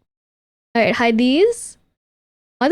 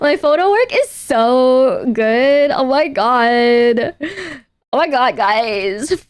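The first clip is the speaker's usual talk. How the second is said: bigger mock brag; much slower than usual. Repeats brag after laughing.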